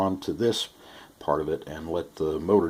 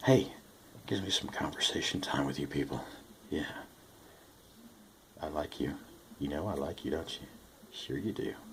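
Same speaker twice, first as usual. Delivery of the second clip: very soft, gentle, low tone; 2 semitones lower, 9 dB quieter than usual. Speaker chatting to viewers while working on a project, in a low tone of voice. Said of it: "It's a this low tone of voice".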